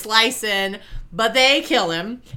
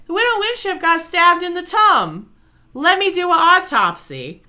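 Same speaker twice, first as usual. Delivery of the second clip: lightly voiced magistrate; 7 semitones higher, 4 dB louder than usual.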